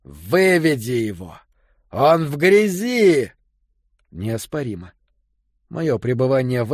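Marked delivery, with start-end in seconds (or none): 0.0-3.3 screaming. Retold or imitated. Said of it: "вопящий Келлен".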